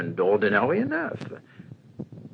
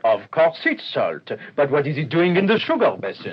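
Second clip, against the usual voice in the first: impatient scolding; 3 semitones higher, 6 dB louder than usual. Acted. Detective scolding the waiter.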